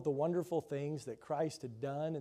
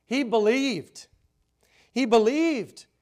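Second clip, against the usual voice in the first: higher, louder, slow declaration; proclaimed; 6 semitones higher, 10 dB louder, slower than usual. Real, not acted. Preacher to congregation, declaring he believed, louder. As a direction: ring it out to the congregation. Repeated, rising emphasis.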